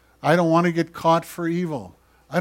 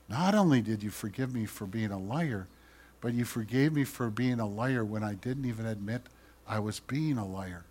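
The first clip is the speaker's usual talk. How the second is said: awed prayer; 4 semitones lower, 11 dB quieter than usual. Pretend. Believer speaking to God.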